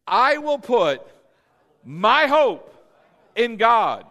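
loud, high declaration in separate phrases; like you mean it. Shown as a demonstration. Preacher leading the congregation in a verse, forceful and emphatic. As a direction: proclaim it forcefully, pausing between phrases. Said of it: "say it like you mean it".

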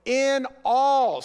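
in all called out loud to the room. Real, not acted. Preacher calling out to his congregation, loud. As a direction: ring out in all to stir the church.

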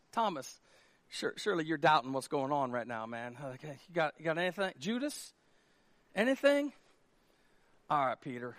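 ordinary delivery

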